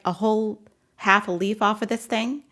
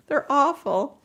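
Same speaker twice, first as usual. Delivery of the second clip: laughing disgust; 5 semitones higher, slower than usual. Real, not acted.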